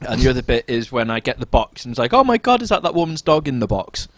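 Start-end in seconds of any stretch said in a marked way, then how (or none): 2.1-4.1 shocked. Retold or imitated. Retold shocked reaction.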